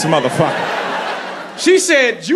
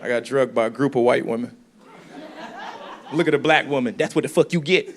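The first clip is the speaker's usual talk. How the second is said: mock black woman voice; 5 semitones lower, 3 dB quieter, faster than usual. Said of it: "why my black woman voice just sound like Eddie Murphy".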